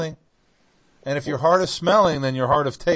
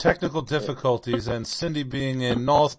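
put-on North Carolina accent. Apologizing for technical difficulties, in a North Carolina accent. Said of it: "This is my North Carolina accent".

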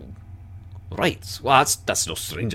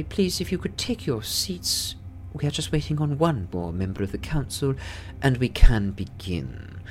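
council lady; 6 semitones higher than usual. Acted. Council chair asks guests to sit, formal and higher. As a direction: call the room to order politely.

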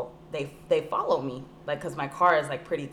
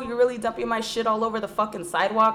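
retold anger; 5 semitones higher, 3 dB louder than usual. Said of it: "I was mad 'cause they're dumping".

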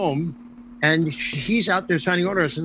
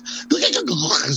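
a mock singer's vocal sound, half-laughed; imitating a singer's vocals; 4 semitones higher than usual. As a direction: lightly send up the singer's singing style. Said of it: "He imitates her".

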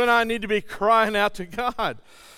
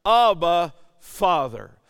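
loud first word, falling away; a brief emphatic call to the Father; crying out; 5 dB louder, slower than usual. Acted. Preacher reading of the Spirit in our hearts, crying out. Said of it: "crying out".

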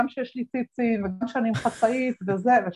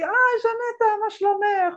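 put-on high-pitched old-lady hello; old woman greeting the lecturer in a high voice; 12 semitones higher than usual.

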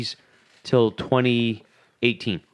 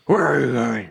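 lightly voiced furry monster; a hint of a puppet monster; Cookie Monster. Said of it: "Cookie Monster?".

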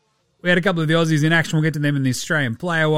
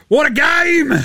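excited; 9 semitones higher, 4 dB louder than usual. Real, not acted. Excited shout opening the show.

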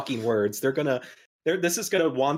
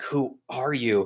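beaten-up Batman; slower than usual. Acted. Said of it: "Batman is, like, beaten up and bloody".

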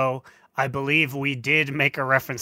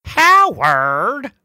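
higher, louder shout of a name; 7 semitones higher, 7 dB louder than usual. Retold or imitated. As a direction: call out the name, movie style. Quoting movie line.

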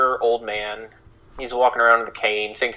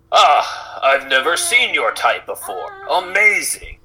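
put-on higher, awed old man voice; amazed old man; 4 semitones higher, slower than usual. Old man marveling at Sierra, higher awed voice. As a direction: marvel like a doddering old villager. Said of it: "He looks to you and goes".

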